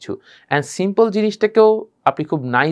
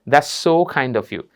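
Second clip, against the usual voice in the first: heartfelt, eyes half closed; 3 semitones lower, much slower than usual. Shown as a demonstration. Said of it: "চোখটা একটু হালকা করে বন্ধ হবে".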